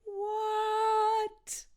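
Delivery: high whispered gasp of shock; shocked what. Shown as a demonstration. Shocked by the wedding news, a high whispered what. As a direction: breathe it out in disbelief. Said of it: "expressing shock and disbelief".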